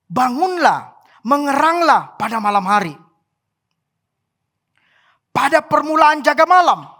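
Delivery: preacher calling out a verse; declaimed scripture. A narrator's reading. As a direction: proclaim the verse as an urgent call.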